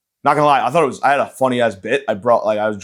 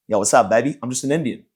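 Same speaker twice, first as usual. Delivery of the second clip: light mock Indian accent; casual attempt at an Indian accent; hint of a put-on Indian accent; Indian accent impression. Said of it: "That's my Indian impression".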